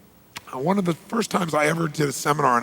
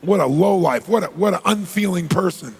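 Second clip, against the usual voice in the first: loud, wounded outrage, played for effect; mock indignation; 4 semitones higher, 4 dB louder than usual. Rejected man judging the woman, mock indignation. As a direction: put on a show of taking offence.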